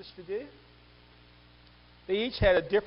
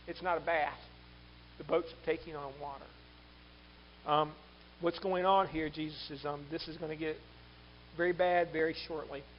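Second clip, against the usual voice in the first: understated, matter-of-fact report; just informing; 2 semitones lower, 3 dB quieter than usual. Acted. Luke's disciple informing Jesus of trouble, understated report. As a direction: report the emergency with no urgency. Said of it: "informing Jesus there's a situation".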